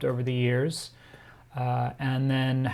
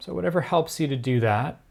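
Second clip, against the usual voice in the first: measured meditation guiding with long pauses; guided meditation. Real, not acted. Teacher guiding listeners to turn their attention inwards, unhurried meditation delivery. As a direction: ease them into stillness, phrase by phrase.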